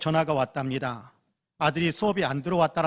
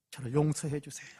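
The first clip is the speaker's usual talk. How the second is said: pleading for forgiveness; 6 dB quieter than usual. Retold or imitated. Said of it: "울부짖으며 기도했답니다".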